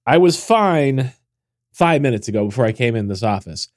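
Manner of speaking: stuffy congested voice; blocked nose. Real, not acted. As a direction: talk through a blocked nose. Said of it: "you sound very, very stuffy".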